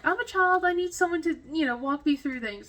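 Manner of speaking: put-on playful helpless child. Friend Natalie joking she needs to be walked through the flight, mock childish. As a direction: whine like a child who needs hand-holding. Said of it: "she's all like".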